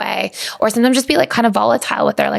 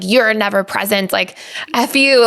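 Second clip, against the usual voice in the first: a touch of mock blame, slower on the last words; half-hearted accusing jab; lightly voiced angry outburst. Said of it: "Like, it was like, "Hey, this is how I'm feeling".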